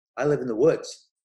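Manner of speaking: loud, proud delivery with real pride. Recalling a woman's answer to her question: imitating a proud tone. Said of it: "she said with so much pride in her voice".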